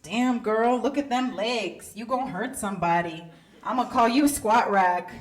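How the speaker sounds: lightly voiced man ogling a waitress; mock street-style compliment; male customer's catcall. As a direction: play a black guy's admiring catcall. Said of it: "I was waiting on this guy".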